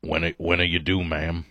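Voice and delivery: low, quick mock Ed O; a light low-voiced imitation of Ed O; Ed O impression. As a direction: mumble it fast like Ed O asking a lady. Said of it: "That's my Ed O".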